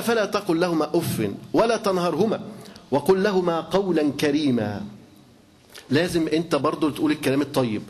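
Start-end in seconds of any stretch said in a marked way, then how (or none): 0.0-4.8 slow, measured chanting of the verse; Quran recitation. Acted. Preacher reciting the verse to his listeners, slow solemn recitation. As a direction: recite it with reverence, drawing out the words.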